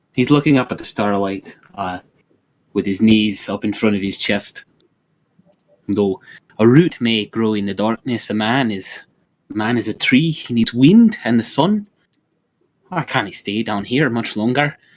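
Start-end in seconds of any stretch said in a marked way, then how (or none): 5.9-14.7 put-on leprechaun character voice with Irish accent. Player voicing a character during a tabletop game session, in a leprechaun voice. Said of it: "leprechaun voice before?".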